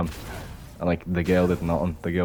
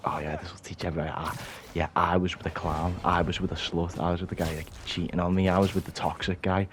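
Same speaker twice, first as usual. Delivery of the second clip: quiet imitation; 6 dB quieter than usual. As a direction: voice their inner thoughts quietly. Voices women posting about exes.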